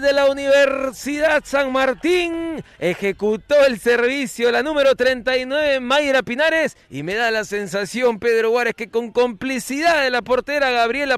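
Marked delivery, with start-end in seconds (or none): 0.0-6.8 loud. Real, not acted. After goal call.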